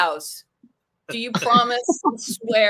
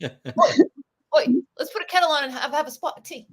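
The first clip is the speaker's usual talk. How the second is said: British stereotype; 3 semitones higher than usual. Retold or imitated. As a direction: ham up a cheery British tea offer. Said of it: "That's so British".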